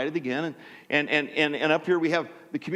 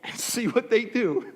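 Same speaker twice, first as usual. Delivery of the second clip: mock talking with tongue stuck; imitated impeded speech; 3 dB quieter than usual. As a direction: talk as if your tongue is caught. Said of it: "go up there and talk like this".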